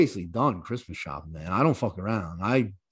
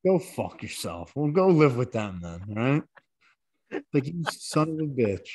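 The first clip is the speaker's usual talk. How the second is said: put-on heated, higher ranting at the kid; exasperated dad rant, pitched up; mock exasperated rant; 4 semitones higher than usual. Ranting at ungrateful son.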